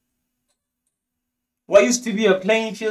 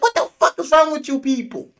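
pitched up, louder disbelieving yell at them; half-mock outrage, higher and louder; exasperated outburst; 11 semitones higher, 3 dB louder than usual. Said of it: "he's like".

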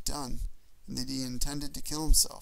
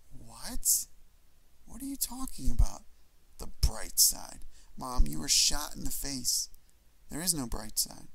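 incredulous. Acted. Son can't believe his shot mother's joke, disbelieving. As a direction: protest in disbelief.

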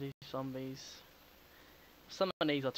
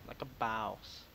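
mock boast; 4 semitones lower, much slower than usual.

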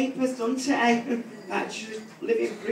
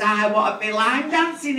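put-on sulky teenager; 4 semitones higher than usual. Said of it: "She says".

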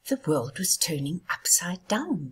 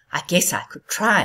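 huffy; 7 dB louder than usual. Acted. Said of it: "huffed the wind".

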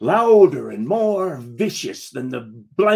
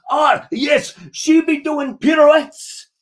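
higher, louder, slower sing-song pirate; reluctant pirate plays along; grudging play-along; 12 semitones higher, 7 dB louder, slower than usual. Acted. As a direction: humour the child with mock delight. Grudgingly playing along with child.

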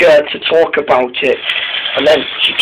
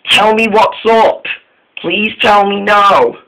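high, slow pleading; lightly voiced pleading engine; pleading friend; 6 semitones higher, slower than usual. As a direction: beg her, pitched up and slowing. Dennis pleading with Molly.

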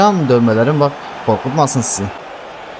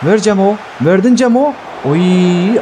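calling out; 6 semitones higher, slower than usual. Real, not acted. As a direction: yell at Cemo to pass it. Calling teammate for pass.

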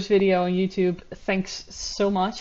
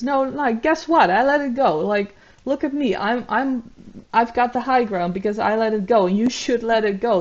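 mock self-righteous insistence, pitched up; higher, emphatic mock protest; imitated defensive retort; 4 semitones higher, 4 dB louder than usual. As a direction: mimic someone claiming the high ground. Mimics her defensive self-justifying retort.

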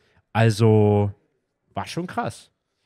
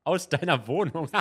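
laughing; 4 semitones higher, 3 dB louder than usual. Real, not acted. Laughing confession.

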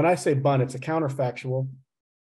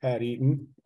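slow, careful phrasing; 2 semitones lower, 4 dB quieter, slower than usual. Shown as a demonstration. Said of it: "I'll put it the other dialect".

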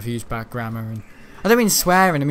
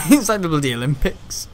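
repeated louder through a laugh; 4 dB louder than usual. Real, not acted. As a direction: laugh as you say it again.

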